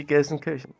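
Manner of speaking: Gelsenkirchen said the German way, hard G at the start; German pronunciation. Shown as a demonstration. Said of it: "I could actually say Gelsenkirchen".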